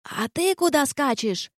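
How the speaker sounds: high, slow grumbling challenge; growled from the door. Acted. Gargoyle snaps at Kristof running in, slow grumbling challenge. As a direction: snarl it after him from afar. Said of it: "прорычала она уже от входной двери".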